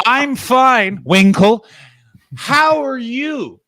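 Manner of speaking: high, exaggerated mock politeness; imitating an over-the-top pleasantry; acted-out reply. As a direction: answer way up high, drawing out the final question. Acting out own reply to friend.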